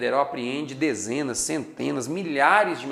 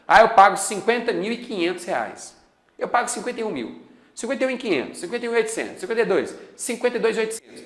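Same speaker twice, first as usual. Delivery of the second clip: quick, higher-pitched bidding; 8 semitones higher, 3 dB louder, faster than usual. Pretend. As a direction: call out rising bids. Bidders acted out.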